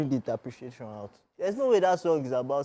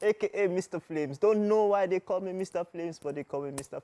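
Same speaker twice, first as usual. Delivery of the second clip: put-on South African accent. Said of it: "don't start South African accent".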